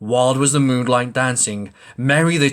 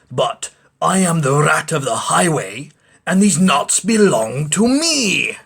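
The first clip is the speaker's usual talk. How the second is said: greedy rat; 2 semitones higher than usual. Acted.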